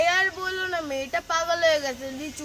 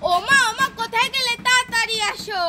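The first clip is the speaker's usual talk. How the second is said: high, raised-voice call; 4 semitones higher, 3 dB louder than usual. Acted. Girl summoning her mother to come quickly, calling out. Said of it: "এত ডাকাডাকি করছিস কেন".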